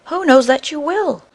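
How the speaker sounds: high, loud scornful retort; angry retort. A narrator's reading. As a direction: sneer at her husband, loudly. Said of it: "her vexation and ill temper".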